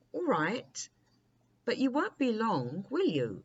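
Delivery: put-on a young prince begging not to be left long; anxious prince. Prince pleads before jumping.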